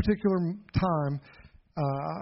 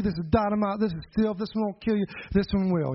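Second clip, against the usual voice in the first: summoned courage; 3 semitones higher than usual. Retold or imitated. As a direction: run the borrowed warning together without pauses. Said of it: "finally I got enough courage".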